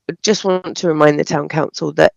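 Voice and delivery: slightly hoarse, croaky throat. Real, not acted. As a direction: talk through a bit of croak. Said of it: "please excuse my slightly croaky voice".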